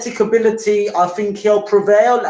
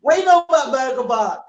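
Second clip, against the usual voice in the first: laughing tease; 8 semitones higher, faster than usual. Real, not acted. Teasing banter about Birmingham.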